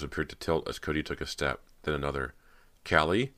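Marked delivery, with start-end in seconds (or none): 2.9-3.3 higher, rising tentative call; small, frightened. A narrator's reading. Girl searching basement for sister, small and frightened. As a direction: call the name with a touch of fear. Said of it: "a voice came out small and frightened".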